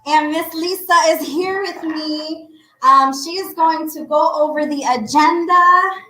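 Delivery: breathless, catching her breath. Real, not acted. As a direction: talk while still winded. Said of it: "I'm out of breath".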